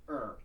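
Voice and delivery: "er" with a hard American R. Shown as a demonstration. Coach showing singers which R to avoid, American "er". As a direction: say "er" the American way, R-coloured. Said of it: "not an American".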